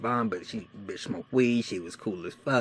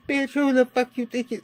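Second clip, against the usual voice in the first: much higher, louder furious retort; angry yell; 8 dB louder than usual. Retold or imitated. Teen yelling back at his brother's wife, furious. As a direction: fire it back at her at full volume. He yells back at her, retold.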